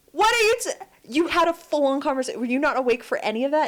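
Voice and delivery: high exasperated disbelief, easing down; high burst, then rapid questioning; incredulous. Retold or imitated. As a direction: challenge him in mock disbelief. Retold incredulous challenge to husband.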